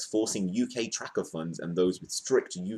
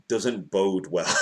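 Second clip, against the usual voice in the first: mock ominous; 5 dB louder, much slower than usual. Ominous aside before laughing.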